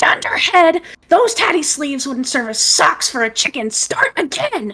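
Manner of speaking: scratchy voice calling out. Describing a voice heard from beyond the room, scratchy voice crying out. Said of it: "scratchy voice kind of like cries out".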